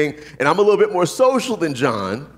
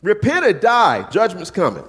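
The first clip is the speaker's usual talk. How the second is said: street preacher; 5 semitones higher than usual. Retold or imitated. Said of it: "That's it".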